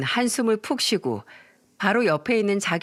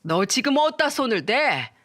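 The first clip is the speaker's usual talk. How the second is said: screaming mother. Acted. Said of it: "소리를 빽 지르더군요".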